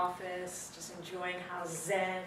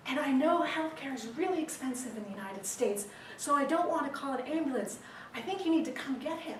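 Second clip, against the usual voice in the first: higher-pitched put-on British accent; mock British accent, pitched up; British woman; 6 semitones higher than usual. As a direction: imitate a British lady pleading on the phone. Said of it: "Sorry about the British accent".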